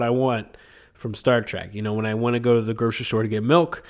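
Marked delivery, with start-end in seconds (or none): 1.7-3.8 congested sick voice. Real, not acted. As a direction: talk through a head cold. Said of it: "in my sick voice".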